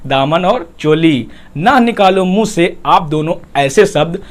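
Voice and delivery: slow, sing-song recital of a rhyme; slow verse reading; rhyming couplet. Shown as a demonstration. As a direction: recite it like a little poem.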